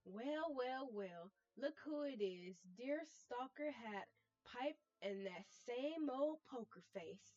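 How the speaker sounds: put-on failed fancy accent. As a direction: play the smug theatre star, trying for a fancy accent and failing. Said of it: "I can't do a fucking fancy accent".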